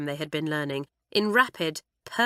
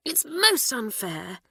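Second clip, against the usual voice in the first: indignant cry; 6 semitones higher, slower than usual. Acted. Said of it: "cried Hilary".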